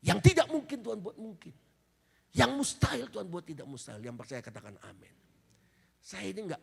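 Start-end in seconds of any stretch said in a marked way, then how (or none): 0.1-4.1 fervent preaching. Acted. Preaching climax.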